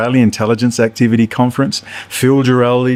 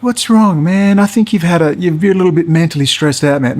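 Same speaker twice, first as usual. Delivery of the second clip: higher, taunting fake-concern voice; mocking manipulator; 5 semitones higher than usual. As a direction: imitate a smug guy mocking your stress. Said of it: "he laughs at you and mocks you".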